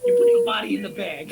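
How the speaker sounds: high, loud accusation; angry accusing. Acted. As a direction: accuse him hard. Cole accusing.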